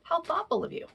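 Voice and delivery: high, syrupy mock praise; sweet-sounding but cutting; sarcastic. Shown as a demonstration. Parent mocking a late child, sarcastic. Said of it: "That sarcasm is just seeping through".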